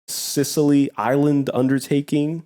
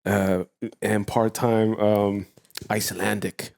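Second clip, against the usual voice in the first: Wim Hof; 2 semitones lower than usual. Acted. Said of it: "Icelandic ... I am also known as Wim Hof".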